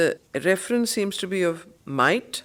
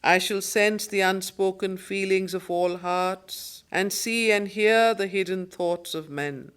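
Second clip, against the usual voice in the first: poem recitation, a touch fuller; 4 dB louder than usual. Acted. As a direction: declaim the lines with more weight. Rereads the verse lines.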